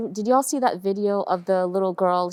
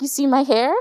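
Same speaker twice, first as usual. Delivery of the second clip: high, loud child imitation; proud little daughter; 7 semitones higher, 5 dB louder than usual. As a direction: mimic a toddler eagerly showing off. Voices her young daughter showing off.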